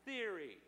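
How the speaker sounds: theory set off by pauses; stress on theory. Shown as a demonstration. Preacher telling church there's no proof, stressing theory. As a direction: land hard on theory as a word on its own. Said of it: "emphasis on theory".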